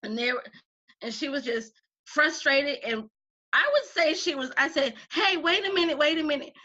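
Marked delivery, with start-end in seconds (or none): 5.1-6.5 raised pitch, playful alarm; mock-urgent interruption. Teacher stopping a student mistreating her wire, mock-urgent. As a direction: halt them with exaggerated concern.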